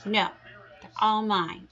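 high, loud grouchy scream; furious ladybug shriek. Acted. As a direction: scream it, refusing to share. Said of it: "screamed the grouchy ladybug".

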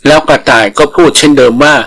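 ordinary delivery, nothing marked

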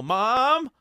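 loud, high-pitched yell; yelling for Mom. Retold or imitated. Scared kid running indoors to his mom, yelling. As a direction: holler out in a panic for your mother. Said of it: "I'd yell".

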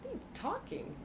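put-on high, puzzled little kid; kids' voice. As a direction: play a bewildered child hearing mom's accent. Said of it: "my kids will look at me like".

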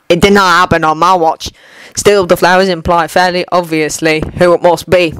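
put-on old warrior amused at his king's braid; Dwalin's voice. Dwalin teases his king about the braid, lightly voiced.

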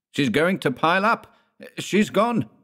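very high, distressed outcry; anguished cry. A narrator's reading. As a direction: cry it out watching disaster come. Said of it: "cried Legleo".

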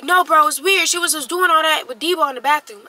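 mock worked-up accusation; retold agitated complaint. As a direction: argue back as the aggrieved friend. Retells his complaint in a quarrel.

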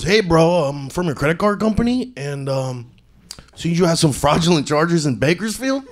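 a hint of a Chicano cholo caller; cholo accent. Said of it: "shouldn't have done the Cholo one".

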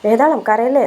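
high, fretful coaxing to stop crying; anxious pleading comfort; coaxing not to cry. Retold or imitated. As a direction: soothe her like a worried friend. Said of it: "എന്ന് പറയുന്നുണ്ടേ".

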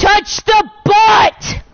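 put-on high, slow shouted kid fish; Nemo voice. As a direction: yell it like little Nemo. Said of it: "While Nemo be like".

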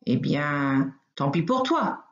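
mock-menacing wolf growl; bare your teeth and threaten, lightly. Wolf baring his teeth at the rabbit, mild mock growl. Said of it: "gronde le loup en montrant toutes ses dents".

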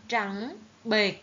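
"trắng bệch" slowly, rising trắng, short falling bệch; careful model reading. Shown as a demonstration. Teacher drilling hard words, "trắng bệch" slow and distinct. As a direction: sound out "trắng bệch" syllable by syllable. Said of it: "các con lưu ý".

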